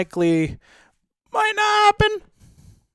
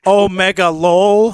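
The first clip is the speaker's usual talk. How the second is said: exaggerated deadpan; 3 semitones higher, 6 dB louder, slower than usual. Real, not acted. Joking reply to V tuber question.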